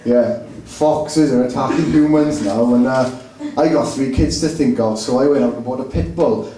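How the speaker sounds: a mild impression of a pub bore; Daily Mail reader voice. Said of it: "In a Daily Mail hundred sound".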